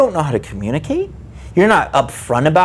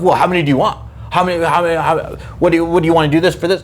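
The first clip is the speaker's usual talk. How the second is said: mocking the seller; faster than usual. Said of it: "Why are we playing this game of".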